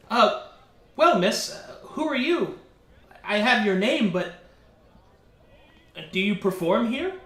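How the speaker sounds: a hint of a shy, curious lad; lightly voiced awkward Clyde. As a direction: ask haltingly, unsure how to address her. Game master voices Clyde questioning bard.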